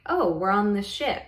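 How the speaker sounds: lightly playful, swooping "oh"; mild retold playfulness. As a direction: report it with a touch of childlike play. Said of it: "kind of playful".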